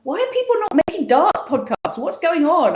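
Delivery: high-pitched exasperated complaint; retold whinge. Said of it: "have a good old whinge".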